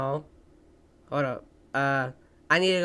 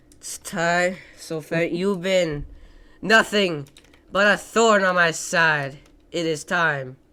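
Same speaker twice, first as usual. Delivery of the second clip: villain monologue; 4 dB louder, slower than usual. Acted. Villain speech to friend in game.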